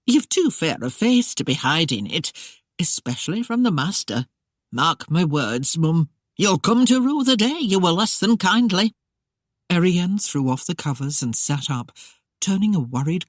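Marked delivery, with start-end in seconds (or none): 0.1-8.9 gentle coaxing, rising into a warning; lightly voiced housekeeper, coaxing. Housekeeper coaxing the young bride, rising warning. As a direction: coax her, then warn.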